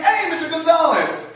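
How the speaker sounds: high-pitched, cheery call; mock hearty greeting. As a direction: hail him like an oblivious coworker. Acting out coworker's cheery greeting again.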